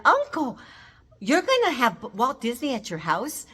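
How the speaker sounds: put-on high, bright child voice asking eagerly; excited little girl. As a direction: play a thrilled three-year-old asking her uncle. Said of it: "her three-year-old self goes running in".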